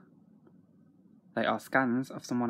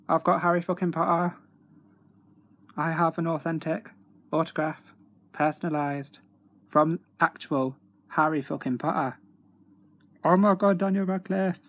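louder and higher, gushing with joy; can't contain the excitement; thrilled; 5 semitones higher, 5 dB louder than usual. Real, not acted. Fan bragging to viewers about a Harry Potter autograph, thrilled.

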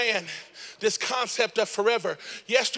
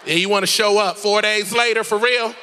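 indignant, higher-pitched sister telling someone off; sassy attitude; 4 semitones higher, 5 dB louder than usual. Acted. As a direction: play an offended sister with loads of sass. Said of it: "She had an attitude".

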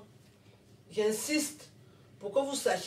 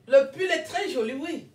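en riant; 4 semitones higher, 5 dB louder than usual. Real, not acted. Admire le pull en riant.

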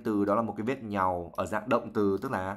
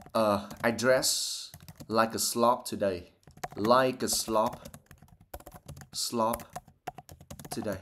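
casual self-mocking; slower than usual. Shown as a demonstration. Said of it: "mình có thể bảo rằng".

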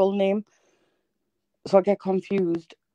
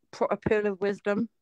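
whisper; 8 dB quieter than usual. Acted. Sharing a mock pearl of wisdom.

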